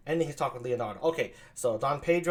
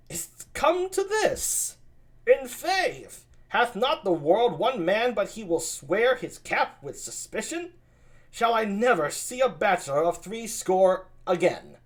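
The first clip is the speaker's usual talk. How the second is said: much higher, slow exasperation; mock despair at his friend; incredulous Benedick; 7 semitones higher, 4 dB louder, slower than usual. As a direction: Benedick to Claudio, high. Benedick exclaims.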